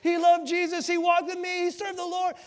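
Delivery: high, loud slow grand announcement; loud booming heaven welcome; heavenly announcer. Retold or imitated. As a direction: announce him like a stadium emcee. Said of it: "they're like".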